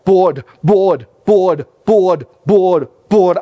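firm, loud drilling of each word; impatient teacher drill. Retold or imitated. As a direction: hammer the word at the boy like a tired teacher. Teacher drilling a struggling boy.

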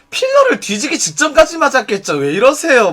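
high-pitched, exaggerated jokey jab; mocking retort. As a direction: ham up the mock protest, starting high. Acted exaggerated comeback.

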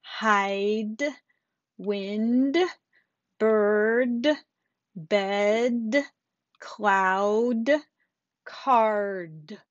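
final D clearly released on "Hide", "bird", "card"; crisp, audible D at the end of each word; exaggerated word endings. Shown as a demonstration. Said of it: "you want the D sound".

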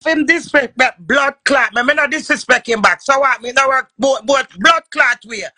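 loud, heated protest. Real, not acted. Arguing with the other woman, loud and heated. Heated argument over disrespect.

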